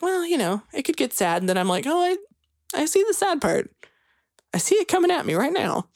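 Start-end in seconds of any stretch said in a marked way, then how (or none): 0.0-1.4 high-pitched mock worry; retold uneasy realization. Audience member bracing for the second act, retold uneasy realization. 1.9-5.9 high-pitched retold dread; mock dread. Theatergoer sees the sad part coming, mock dread.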